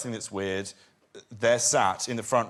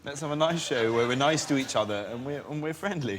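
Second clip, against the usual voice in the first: sweet and polite. Shown as a demonstration. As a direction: sound extra friendly and sweet. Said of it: "let's start again".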